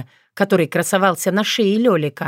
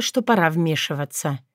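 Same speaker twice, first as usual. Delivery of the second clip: ordinary delivery, nothing marked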